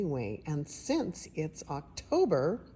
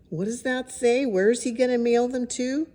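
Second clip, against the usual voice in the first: excited question; 8 semitones higher, 6 dB louder than usual. Real, not acted. Excited asides to listeners.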